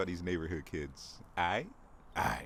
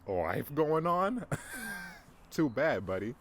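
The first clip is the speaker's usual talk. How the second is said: loud, high mocking sneer at someone's plans; a hammed-up gloating taunt; 5 semitones higher, 4 dB louder, slower than usual. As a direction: taunt them like a bully. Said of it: "It's like".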